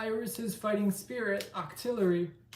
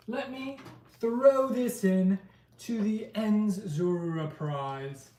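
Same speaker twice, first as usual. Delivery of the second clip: put-on London accent; 3 semitones higher, 3 dB louder, slower than usual. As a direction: try out a London accent for fun. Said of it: "my best attempt at a, uh, at sort of a, a London accent".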